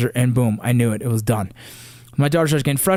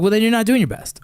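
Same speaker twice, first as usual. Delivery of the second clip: higher, raised voice, scolding; angry retort; 7 semitones higher than usual. Retold or imitated. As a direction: bite back at her like a frustrated father. Heated argument with daughter after loss.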